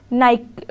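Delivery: teacher naming the brand, clearly "naik"; Nike as naik. Shown as a demonstration. Teacher giving one Nike pronunciation, said "naik". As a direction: say नाइक as "naik", two syllables, no final e. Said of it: "नाइक है".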